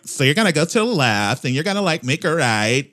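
mock farmer giving directions in a Spanish accent; imitated Spanish-accented English. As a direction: put on a light Spanish accent. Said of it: "in a Spanish accent".

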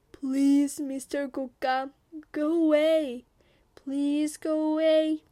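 high, loud acted begging, slowing at the end; frightened pleading. Cornered tiger begging kokam to leave, frightened plea. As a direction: plead like a scared tiger, drawing it out.

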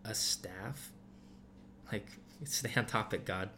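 lightly voiced Moses, eye-rolling at God; sarcastic Moses. Moses lightly brushing off God's question, mild sarcasm. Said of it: "the way Moses answered that".

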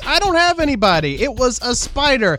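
retold insistent denial; exasperated protest. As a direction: protest as the wrongly accused man. Retold suspect protests to police.

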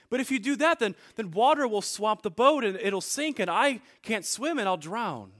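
the prince loses his royal composure; regal tone failing. Acted. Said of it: "the prince's regal tone started to fail him".

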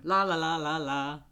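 brisk diner order call; diner cook calling orders. Retold or imitated. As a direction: rattle off orders like a busy waitress. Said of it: "Phoebe gives her impression of being a waitress".

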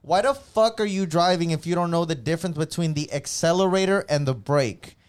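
loud exasperated rant at bad drivers; angry rant. Real, not acted. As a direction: vent your road rage, loud. Road rage rant.

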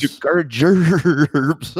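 slow, high, loud redneck drawl. Pretend. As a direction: bellow it out in a cartoon redneck drawl. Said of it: "your best redneck voice".

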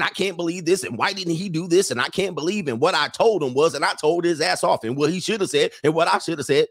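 lightly imitated complaining woman; mock women's chatter. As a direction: rattle off a list of grievances like gabbing girlfriends. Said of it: "That's how women talk".

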